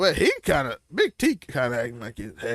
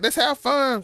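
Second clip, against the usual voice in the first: quoting Keyshawn; 8 semitones higher, slower than usual. Retold or imitated. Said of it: "Keyshawn, like".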